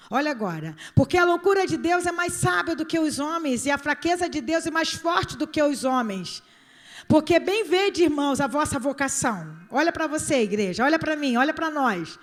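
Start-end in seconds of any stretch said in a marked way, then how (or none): 0.9-9.6 scripture reading. Acted. Reads scripture emphatically.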